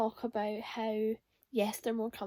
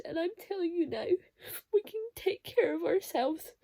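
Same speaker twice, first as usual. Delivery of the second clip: teary reading; 5 semitones higher than usual. Real, not acted. Reading touching line tearfully.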